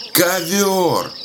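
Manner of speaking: КОВЁР held long and high, then falling; shouted correction. A narrator's reading. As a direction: call out КОВЁР to someone who won't hear. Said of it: "старик кричит". (выкрикивает «Ковёр!», высоко и протяжно)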